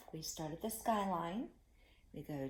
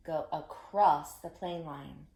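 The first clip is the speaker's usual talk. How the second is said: slow, clear Go across the plane line; slow teacher voice; 6 dB louder, slower than usual. Shown as a demonstration. Teacher modelling the line slowly for kids. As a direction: lay out each word slowly. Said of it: "you say it after me".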